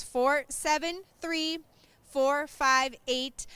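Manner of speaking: very slow, careful number repeat; raffle caller. Real, not acted. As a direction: spell out each digit slowly. Repeating the number even slower.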